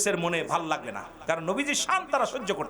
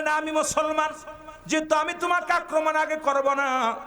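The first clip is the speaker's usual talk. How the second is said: high, declaimed reply; impassioned preaching; 10 semitones higher than usual. Acted. Preacher voicing Ali answering as a Muslim, high and resolute. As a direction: proclaim the retold answer on a raised pitch.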